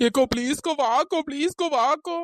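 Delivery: frightened, whimpering plea; tearful pleading. Acted. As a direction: beg big sister to come along. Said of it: "அழுதுட்டு இப்படி ஒப்பரை வச்சுட்டு". (அழுதுகிட்டே பயத்தோட கெஞ்சுறது)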